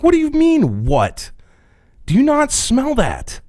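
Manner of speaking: can't believe he doesn't smell it; incredulous. Retold or imitated. Asking the roommate if he smells that, high disbelief. Confronting roommate about the stench.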